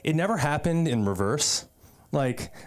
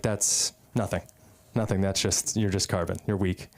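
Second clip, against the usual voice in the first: lower-pitched, deflated imitation of the friend; mock dismissive; 5 semitones lower than usual. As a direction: drop the pep and write him off. Friend deflates his own pep talk.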